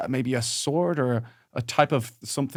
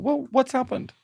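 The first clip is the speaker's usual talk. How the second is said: mock alarm; 11 semitones higher, 4 dB quieter than usual. Mock concern.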